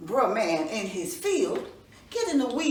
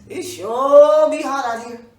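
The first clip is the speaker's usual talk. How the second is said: loud complaint; 3 semitones higher, 16 dB louder, slower than usual. Acted. Rabbit complains loudly of heat.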